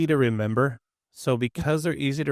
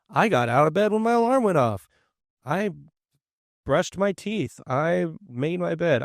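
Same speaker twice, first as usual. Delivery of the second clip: proud self-talk; 4 semitones higher than usual. Pretend. Teacher voicing a student's proud self-talk, upbeat. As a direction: brighten up as if cheering yourself on.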